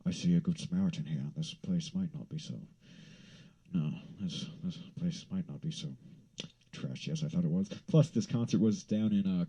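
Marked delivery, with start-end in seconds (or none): 0.1-7.7 low, soft imitated male stranger; impressed passerby. Passerby to the good Samaritan, low musing voice. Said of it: "And he was like".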